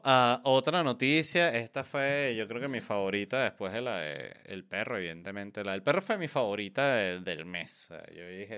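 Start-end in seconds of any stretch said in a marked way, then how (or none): none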